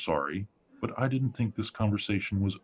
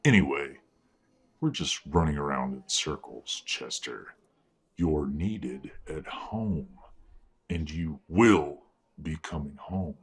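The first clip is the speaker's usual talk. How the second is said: menacing threat; 3 semitones lower than usual. Acted. Father threatening son quietly.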